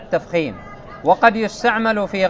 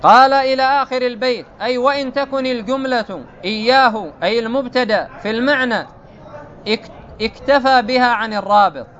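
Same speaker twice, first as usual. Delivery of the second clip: raised, measured reading of the source text; formal text reading; 5 semitones higher, 3 dB louder than usual. Acted. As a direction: read the quoted commentary out formally. Reads the commentary text.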